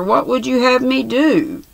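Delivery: high, pleading cry of despair; helpless desperation. A narrator's reading. The old man answering the dwarf's sneer, desperate. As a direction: throw up your hands, no way out. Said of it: "in a kind of helpless desperation".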